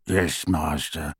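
slow, low croaking reply; old house elf bowing resentfully; grudging elf. A narrator's reading. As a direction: drag out a sullen yes. Kreacher answers grudgingly.

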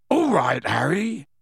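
hearty rustic greeting, rising at the end; cheery welcome with a broad smile; beaming. A narrator's reading. Gamekeeper greeting his young visitor, beaming. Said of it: "he said, beaming".

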